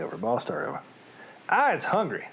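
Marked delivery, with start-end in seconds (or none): 1.5-2.3 southern-drawled giant line; southern accent. Acted. Reader demonstrating how his giant will talk, southern accent. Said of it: "this is how the southern accent is gonna happen".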